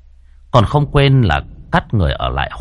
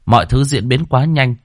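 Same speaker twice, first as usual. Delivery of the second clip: plain reading voice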